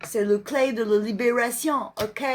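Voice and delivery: slow French with a put-on English accent; playful, drawn-out English accent. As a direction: read it like an English speaker, syllables drawn out. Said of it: "J'aime bien ce petit accent anglais".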